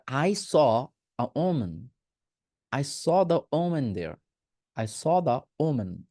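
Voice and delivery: woman said "O-men"; very slow sentences, woman as o-men; singular woman drill. Shown as a demonstration. Teacher models sentences for students, slow "o-men". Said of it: "ওমেন, ওমেন বলবো".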